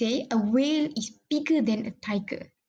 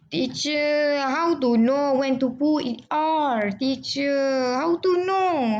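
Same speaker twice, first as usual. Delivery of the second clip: curious student; 2 semitones higher, slower than usual. Acted. Teacher acting a student asking about comparatives, lightly voiced. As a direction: play the puzzled student raising a question.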